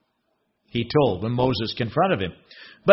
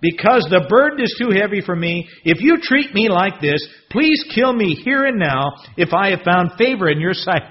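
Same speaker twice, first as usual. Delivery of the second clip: desperate plea; 4 semitones higher than usual. Acted. Moses reads a desperate plea.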